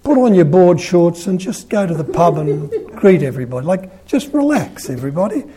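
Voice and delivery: chuckling, half-laughing plea to the cardinal; laughing coaxing. Retold or imitated. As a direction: coax him down with a laugh in the voice. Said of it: "You know".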